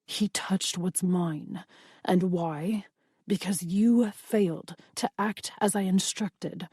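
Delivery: slow, velvety, lightly menacing vampire; a hint of a velvety, menacing master; velvety menace. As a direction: drag it out with cool threat. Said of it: "that same velvety tone".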